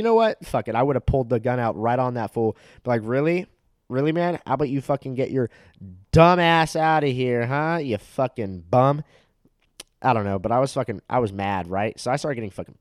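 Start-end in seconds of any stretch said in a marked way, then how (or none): 3.9-9.0 mock telling-off. Telling off the bowling dad, mock angry.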